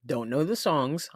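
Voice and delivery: ordinary delivery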